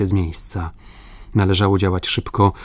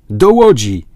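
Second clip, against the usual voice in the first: loud, raised call to the crew; shouted order; 3 semitones higher, 8 dB louder than usual. A narrator's reading. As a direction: call out a command across the deck. Captain orders crew to boat. (głośny okrzyk komendy)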